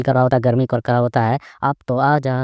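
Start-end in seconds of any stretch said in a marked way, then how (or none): 1.6-2.3 drawn-out plea to come; coaxing call. Acted. Hero calling the fire babies over, coaxing. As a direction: stretch the last word, coaxing.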